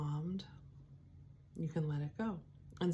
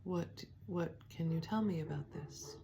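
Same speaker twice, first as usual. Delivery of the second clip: gentle self-questioning; 5 dB quieter than usual. Shown as a demonstration. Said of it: "I can just say".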